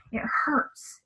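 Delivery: hushed, broken sob on the words; retold cry of pain. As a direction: let the words crack into a cry. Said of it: "she was crying".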